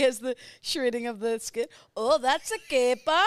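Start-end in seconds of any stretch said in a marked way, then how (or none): 2.0-3.2 high, loud Goldmember voice; Goldmember impression. Quoting the Austin Powers villain in his high loud voice. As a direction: squeal it like Goldmember. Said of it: "I know that's Goldmember".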